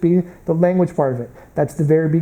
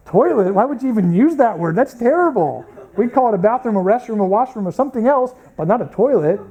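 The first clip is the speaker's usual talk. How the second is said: higher-pitched, scandalized protest; mock appalled; 5 semitones higher than usual. American shocked by the British word, mock appalled. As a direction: object as if the word offends you.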